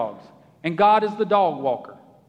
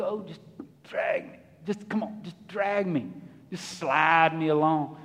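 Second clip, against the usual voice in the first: much softer, half-whispered lazy plea; whiny old dog; 5 semitones lower, 5 dB quieter than usual. Pretend. The old-dog believer begging God to drag him, soft and whiny. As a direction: beg to be dragged along.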